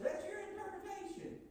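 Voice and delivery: high, dismissive jab on your; mocking retort. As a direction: imitate a smug brush-off. Mocking a study partner's retort.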